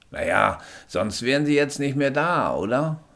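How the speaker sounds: höher und lauter, bestimmter Sanitäter. Acted. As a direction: fordert den Patienten energisch auf liegen zu bleiben. Stolzer Sanitäter. (Sanitäter beugt sich über den Patienten, höher und lauter)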